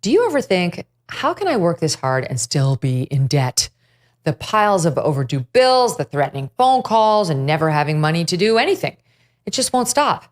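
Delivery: a sponsor read, in a pitchman's concerned tone. Acted. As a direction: read the spot to sell the listener a way out of debt.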